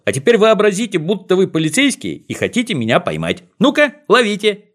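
high, teasing call-out; playful shout. Acted. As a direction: shout it like a game. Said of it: "А Колосок закричал". (задорный крик)

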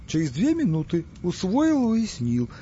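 eager servile repetition, voice leaping high then dropping. Acted. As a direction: hurry to show you obey. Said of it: "подобострастно кланяясь". (подобострастно, испуганно)

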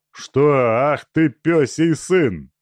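high, loud enraged shout; furious outburst. Acted. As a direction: explode at the defiant captive. Разъярённый Тумба кричит. (яростный крик)

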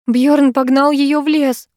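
high, slow, agitated cry; breathless excitement. A narrator's reading. Sara telling the heroine what happened, agitated and high. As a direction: gasp it out, shaken. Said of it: "задыхаясь от волнения".

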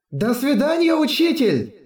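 put-on high, bright chorus of girls; cheerful high girls. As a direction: sing out a cheerful goodbye. Twins wave goodbye cheerfully.

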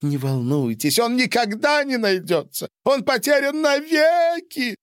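high, loud despairing howl; wailing yell. A narrator's reading. Patient howls to Pak in a high, loud wail. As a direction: wail it like all is lost. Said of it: "завопил пациент".

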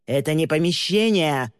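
a touch of an angry yell; mild yell. Acted. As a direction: snap back, offended. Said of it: "заорал в ответ Тристин".

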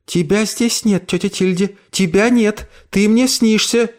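put-on high, hushed girl voice; scared girl. Emily tells her ghost aunt she is not there, scared. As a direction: deny what she sees.

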